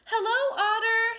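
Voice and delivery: high, loud hello across the river bank; calling out. A narrator's reading. Little Hedgehog hails Otter on the bank, loud call. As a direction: call out over the wind. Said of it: "shouted Little Hedgehog".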